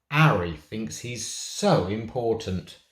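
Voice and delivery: grumbling. Acted. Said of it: "Jesse grumbled".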